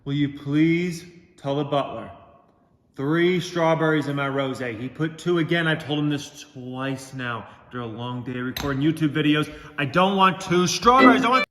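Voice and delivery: mock pampered celebrity complaining about the maids; hammed-up diva whining; spoiled rich star. Rich YouTuber pretends to complain to staff about his plaques.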